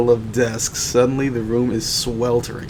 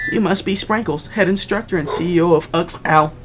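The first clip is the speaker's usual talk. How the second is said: high character voice; 6 semitones higher than usual. Acted.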